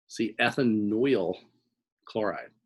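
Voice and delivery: slow, slight New Jersey twang on ethanoyl chloride; a hint of a Jersey accent, unintended; faint Jersey-accented ethanoyl chloride; accidental Jersey accent. Real, not acted. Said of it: "Sorry, I'm not trying to do a Jersey accent there".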